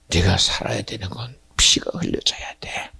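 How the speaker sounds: ordinary delivery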